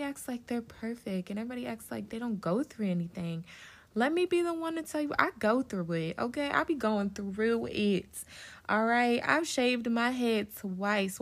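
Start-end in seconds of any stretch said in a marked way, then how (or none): 3.9-11.2 emphatic insistence. Real, not acted. Podcaster to listeners, insisting she struggles too, emphatic and loud. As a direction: own it, leaning hard on every line.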